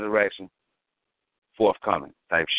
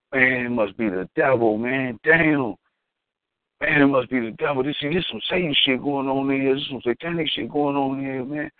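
mock sheepish excuse; 6 semitones higher than usual. Man blames the devil.

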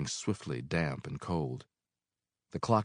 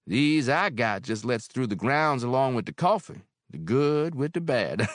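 higher, louder landlady voice; motherly landlady; Mary, older woman; 5 semitones higher, 5 dB louder than usual. Acted. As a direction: speak as kindly Mary. Mary's voice.

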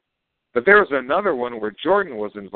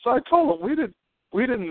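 emphatic no; 13 semitones higher than usual. Real, not acted. Emphatic denial, pitched high.

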